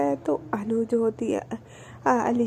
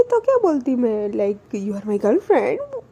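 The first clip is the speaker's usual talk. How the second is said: put-on slow, drawn-out tease on girlfriend; teasing; slower than usual. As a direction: stretch it out slowly, half joking. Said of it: "literally वो इस तरीके से बोलती है". (धीमा, खिंचा हुआ चिढ़ाना)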